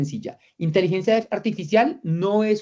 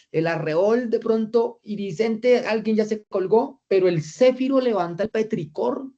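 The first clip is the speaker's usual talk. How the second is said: mock bewildered reading; 5 semitones higher than usual. Shown as a demonstration. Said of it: "Dios mío, ¿qué dice ahí?".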